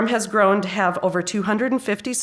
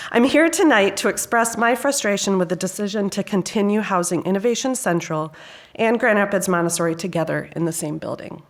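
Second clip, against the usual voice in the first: ordinary talk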